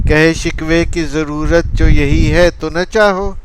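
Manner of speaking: rhythmic Urdu verse recital with drawn-out line endings; poetry recitation. Acted. Reciting a long-metre birthday gift poem, rhythmic poetry recitation. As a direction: recite it in measured, swinging metrical phrases.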